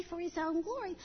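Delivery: mother models the short answer For his own glory; just say it. Shown as a demonstration. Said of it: "Just say".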